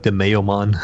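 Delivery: lightly put-on Jamaican accent; just a hint of Jamaican on the vowels; mock Jamaican accent. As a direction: try on a mild Jamaican lilt. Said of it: "I'd like to be Jamaican".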